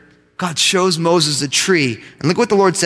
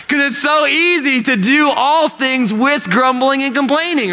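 emphatic preaching; 6 semitones higher than usual. Real, not acted.

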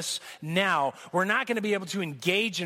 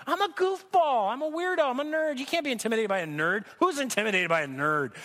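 higher, incredulous self-defense; protesting self; 4 semitones higher than usual. Retold or imitated. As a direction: insist you're just a nerd. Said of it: "And I'm like".

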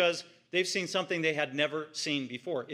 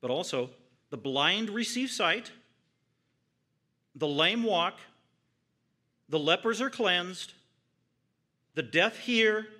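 proclaiming; 2 semitones higher, 4 dB louder than usual. Acted. Jesus sending word back to John, loud and triumphant. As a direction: announce each miracle like a herald.

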